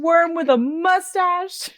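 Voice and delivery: high, drawn-out mock insult; stretched high-pitched name-calling; James. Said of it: "then when he's like".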